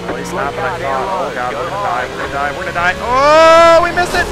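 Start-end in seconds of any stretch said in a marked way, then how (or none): 1.3-2.9 panicked repeating, rising louder; real panic as the wreck comes; shaky stammering panic. Real, not acted. Crash about to happen in race. 3.0-4.3 high, loud burst of relief; relieved shout. Real, not acted. Narrowly avoids wreck.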